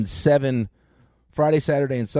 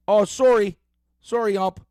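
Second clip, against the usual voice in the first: higher-pitched mock apology, Canadian-style; fake sorry; 6 semitones higher than usual. Coach mimicking the rival coach's apology after a balk, fake sorry. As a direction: imitate an insincere apology to an umpire. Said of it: "The fake, the fake sorry".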